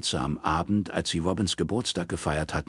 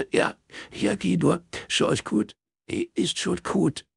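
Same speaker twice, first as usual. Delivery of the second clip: high, choked reassurance; weepy, pitched high; tearful dismissal; 13 semitones higher, slower than usual. A narrator's reading. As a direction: send a friend away through tears. Crying friend ends the call.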